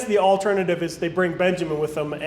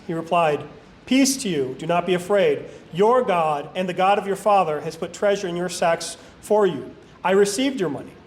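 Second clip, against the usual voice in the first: even, deliberate reading with lightly weighted key words; scripture reading. A narrator's reading. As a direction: read Bible narrative aloud in measured phrases. Reads scripture aloud.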